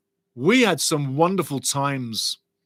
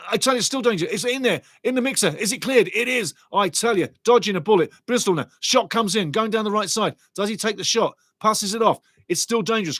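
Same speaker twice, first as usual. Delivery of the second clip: raised, urgent match commentary; live play-by-play; 4 semitones higher than usual. Acted. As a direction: call every touch as it happens.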